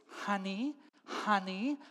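restrained, rising "honey"; coaxing call. Acted. Wife calling husband over, coaxing. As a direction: call him over, lifting each word.

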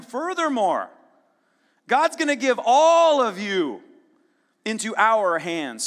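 slow, loud preached battle cry; booming war cry to the army behind him; rallying shout. Acted. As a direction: call it out to the troops with full force. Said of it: "now he's talking to the guys behind him".

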